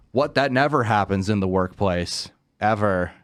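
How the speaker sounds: understated mock surprise; sarcastic disbelief. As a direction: feign innocent disbelief, deadpan. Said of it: "That was sarcasm".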